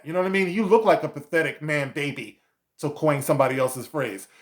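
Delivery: normal talking voice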